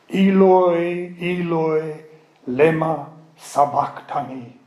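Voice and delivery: Eloi Eloi lema sabachthani in Aramaic; Aramaic cry. Shown as a demonstration. Teacher quoting Jesus on the cross in Aramaic. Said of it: "and this is Aramaic".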